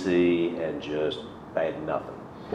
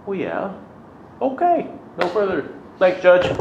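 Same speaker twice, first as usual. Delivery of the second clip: imitating the cop; 11 semitones higher than usual. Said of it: "And the cop said".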